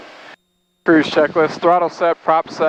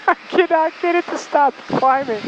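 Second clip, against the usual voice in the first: giggling through the words, higher; laughing; 13 semitones higher than usual. Real, not acted. Student pilot laughing at the plane that keeps climbing. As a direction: laugh it out in frustration.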